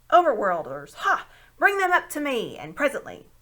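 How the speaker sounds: loud commanding call down the stairs; young man shouting. A narrator's reading. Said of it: "it shouted".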